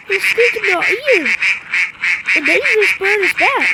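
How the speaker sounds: playful menacing bird taunt; squeaky bird. Pretend. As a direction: tease like a pesky bird in someone's ear. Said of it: "I'm gonna be vindictive and being squeaky".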